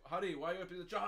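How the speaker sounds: lightly voiced puzzled wife, rushed; mock wife. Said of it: "wife comes home".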